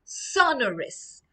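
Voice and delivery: "Sonorous" said slowly, each syllable sounded; pronunciation model. Shown as a demonstration. Teacher asking pupils to repeat after her, slow clear "Sonorous". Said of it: "It's pronounced sonorous".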